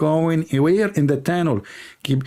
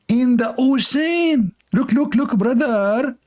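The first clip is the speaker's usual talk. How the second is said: mock amazement; 9 semitones higher, slower than usual. Mock amazement at whale tunnel.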